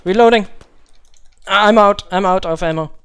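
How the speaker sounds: urgent yell over gunfire; shouted callout. Acted. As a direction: bark it out to the squad. Firefight, calling out reload.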